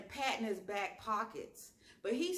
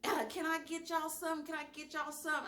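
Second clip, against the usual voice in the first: mock waitress; 8 semitones higher, faster than usual. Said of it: "Here she come".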